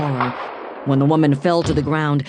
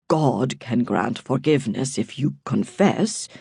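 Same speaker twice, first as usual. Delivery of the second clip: shaking voice; 2 semitones lower than usual. A narrator's reading. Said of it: "his voice shaking".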